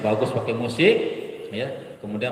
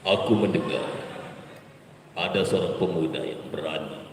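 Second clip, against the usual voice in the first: tyrant king; 8 semitones lower than usual. Shown as a demonstration. King voiced in story.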